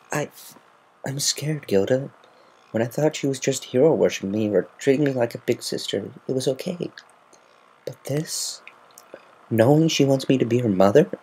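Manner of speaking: high, stammering, fearful confession; scared. A narrator's reading. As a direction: confess the fear haltingly. Rainbow confessing her fear.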